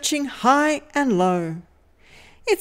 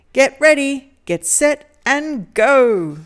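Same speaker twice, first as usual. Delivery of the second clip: louder, higher cheering countdown; excited countdown; 4 semitones higher, 5 dB louder than usual. Acted. Storyteller rallying young listeners, loud and excited. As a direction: fire up the kids for the start.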